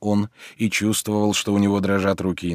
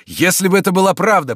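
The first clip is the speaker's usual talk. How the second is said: high, bright with sudden hope; light up with hope; eager, hopeful exclamation; animated; 8 semitones higher, 4 dB louder than usual. A narrator's reading. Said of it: "с одушевлением".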